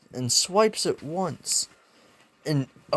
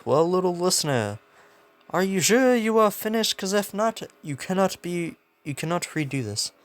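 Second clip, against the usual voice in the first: higher voice easing back down; lightly voiced, raised-pitch host; acted announcer-like examiner; 4 semitones higher than usual. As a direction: play an examiner checking with a kid. Voicing President Mike addressing young examinee.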